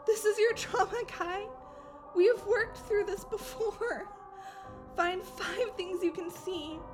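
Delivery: soft, calming guidance; hushed voice with measured pauses; gentle grounding. Acted. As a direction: talk a friend down quietly. Friend talks Kai through grounding.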